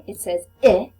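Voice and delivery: "I" said as the short vowel sound, loud and clear. Shown as a demonstration. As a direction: stretch out the short "I" sound for the class. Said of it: "short I".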